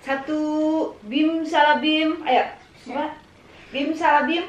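slow, playful magic chant; kids party magician. Pretend. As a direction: count it out like a magician. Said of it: "magic, magic dong".

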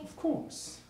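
breathed, barely voiced; soft unvoiced reply; whispered. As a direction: whisper it to her.

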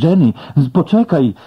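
loud high call after someone; desperate call to a fading ghost. A narrator's reading. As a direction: shout "Jenny, poczekaj!" as she vanishes. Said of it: "zawołałem".

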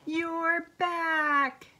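high, delighted storybook cry; joyful shout. A narrator's reading. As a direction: exclaim it like welcoming a lost pet home. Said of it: "Michelle shouted as she dashed out".

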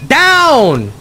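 high excited yell; hyped gamer bro. Real, not acted. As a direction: scream it at the screen. Yelling at enemy in game.

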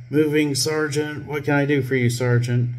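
high, eager-to-please subordinate; mock obedient recruit voice; good little trooper. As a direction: play the dutiful trooper reporting promptly. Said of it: "Like a good little trooper".

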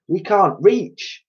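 high, drawn-out complaint; helpless protest. A narrator's reading. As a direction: stretch it into a high whine of protest. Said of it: "they asked".

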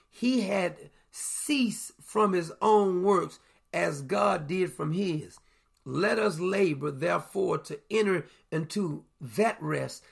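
slow, measured Bible reading; scripture reading. Acted. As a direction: read the verses slow and solemn. Reads scripture aloud.

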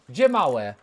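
usual speaking voice

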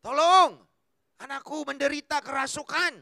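loud begging cry; loud plea. Retold or imitated. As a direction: plead loudly for the daughter. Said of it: "dia kata".

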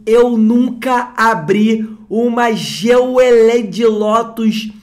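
can't believe what you just pulled; excited disbelief. Real, not acted. Vlogger tells viewers he never opened one, loud and slow. Disbelief after rare pull.

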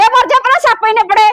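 high, exasperated outburst; angry cursing. Acted. Wife curses in quarrel.

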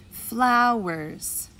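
"Flowers" slowly as flow, ers; syllables drawn out. Shown as a demonstration. Teacher lets preschoolers hear the parts, "Flowers" drawn out. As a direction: stretch both syllables of "Flowers". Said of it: "Let's clap the syllables".

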